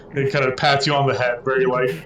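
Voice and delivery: ordinary talk, nothing marked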